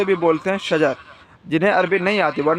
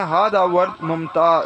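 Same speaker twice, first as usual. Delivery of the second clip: slow teaching demo; slower than usual. Shown as a demonstration. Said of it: "اگر بولنا ہے".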